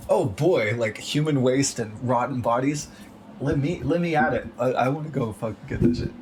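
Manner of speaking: mock eagerness. Imagined volunteer begging to clean up rotten bodies, mock eager. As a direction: play an absurdly keen volunteer, pitch climbing.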